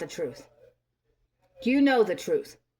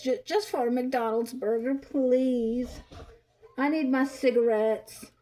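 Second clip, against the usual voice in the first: whiny pleading mockery of a mooching parent; mock begging. Mocking her begging her grown kids for money, whiny plea. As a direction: beg pathetically, drawing out each please.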